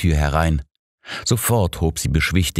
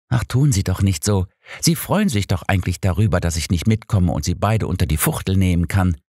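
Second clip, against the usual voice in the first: higher, lively, mock-reproachful voice; Alice, teasing; 3 semitones higher than usual. Housekeeper teasing Holmes about his relief, playful. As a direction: needle him playfully.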